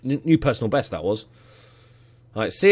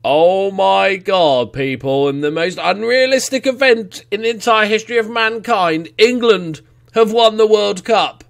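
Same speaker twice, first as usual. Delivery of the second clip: stunned disbelief; 5 semitones higher, 6 dB louder than usual. Real, not acted. Gamer telling viewers England won the World Cup, amazed. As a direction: draw out the shock.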